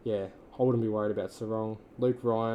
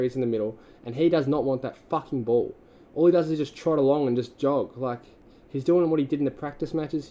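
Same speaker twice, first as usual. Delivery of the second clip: furious rant; 3 semitones higher, 6 dB louder than usual. Real, not acted.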